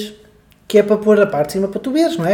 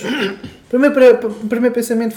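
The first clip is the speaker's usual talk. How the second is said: laughing; 4 semitones higher than usual. Real, not acted. Laughing while repeating.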